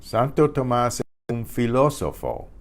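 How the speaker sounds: Santo Tomás es un filósofo in clear Spanish; Spanish teacher modelling "filósofo" with an F; Spanish model sentence. Shown as a demonstration. Teacher reading the sentence for students to repeat, clearly. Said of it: "remember I said there's no P H in Spanish".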